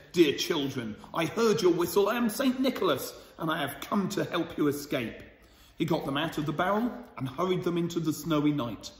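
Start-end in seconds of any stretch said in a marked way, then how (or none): 0.1-5.2 Saint Nicholas. Acted. Saint Nicholas rescuing the children, lightly voiced kind. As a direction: announce yourself kindly as the rescuer. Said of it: "The old man said".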